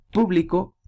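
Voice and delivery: "público" stressed on PÚ; stress on first syllable. Shown as a demonstration. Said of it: "es esdrújula".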